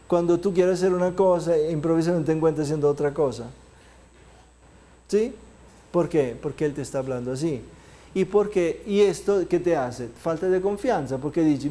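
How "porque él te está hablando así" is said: soft inner voice. Shown as a demonstration. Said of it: "con una voz pasita".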